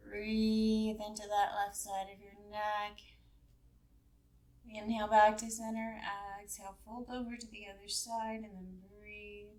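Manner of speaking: measured yoga-class guidance with long pauses; guided yoga instruction. Real, not acted. Leads a gentle yoga warm-up.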